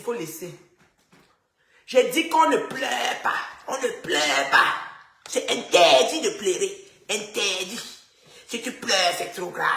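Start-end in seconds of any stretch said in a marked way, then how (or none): 1.9-4.7 slow, loud stern command; stern order. Acted. Woman scolding live viewers, loud and slow. Lecturing viewers: crying is forbidden. 5.3-9.7 loud, slow, put-on preacher voice; mock stern decree. Live host decrees no crying, slow and loud.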